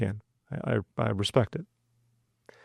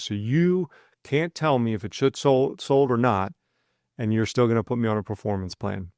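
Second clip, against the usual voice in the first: imitated irritation; 2 semitones higher than usual. Rep on a performance plan complaining to his manager with mild mock irritation. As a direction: play the annoyed rep without full anger. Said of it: "he's getting more and more irritated".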